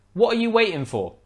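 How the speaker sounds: high-pitched British demand with glottal stops; glottal-stop British accent. Acted. Teacher acting out example, British accent with glottal stop. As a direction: ask it high, British, dropping the T in waiting.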